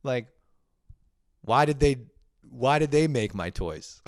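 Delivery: put-on a puzzled child pleading why; confused little kid. Grown man voicing himself as a kid puzzled by his toy, high and whiny. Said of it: "you'd be like".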